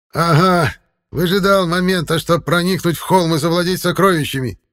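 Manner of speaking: loud, high accusing cry; angry elder yelling; angry shout. A narrator's reading. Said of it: "выкрикнул третий старец, сердито".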